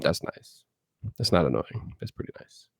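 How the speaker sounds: choppy call audio; bad connection. Real, not acted. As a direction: voice breaking up. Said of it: "your voice is breaking up a little bit".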